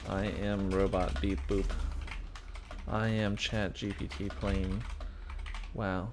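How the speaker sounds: slow, stiff robot voice; toy robot voice. Pretend. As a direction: talk like a beep boop robot. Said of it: "What do I say?".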